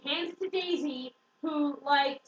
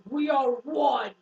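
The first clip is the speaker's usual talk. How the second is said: louder, slowly stretched heroic chant; mock heroic declaration; 6 dB louder, slower than usual. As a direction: declare it slow and grand, hammed-up. Heroes' chant acted in retelling.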